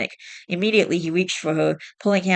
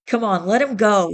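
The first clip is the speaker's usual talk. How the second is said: smirking taunt; 4 semitones higher, 4 dB louder than usual. Acted. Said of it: "he said with a smirk".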